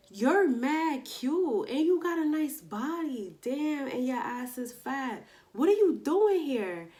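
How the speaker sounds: a lightly voiced coworker. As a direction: hype her up like the girl at work. Coworker voiced in retold story.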